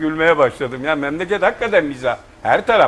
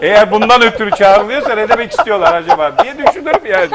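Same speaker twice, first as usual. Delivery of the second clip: raised, loud comic protest; mock indignation; 4 semitones higher, 4 dB louder than usual. Singer objecting to a festival invitation, mock indignant. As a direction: protest the insult with amusement.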